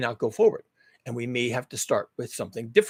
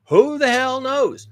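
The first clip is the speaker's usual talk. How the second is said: long sigh, then a slow, higher, louder throwaway question; exasperated; 11 semitones higher, 6 dB louder, slower than usual. Real, not acted. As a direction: give up on the question with a heavy sigh.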